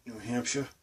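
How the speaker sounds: New Hampshire with a dropped final r, Boston accent. Shown as a demonstration. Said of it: "when I'm saying".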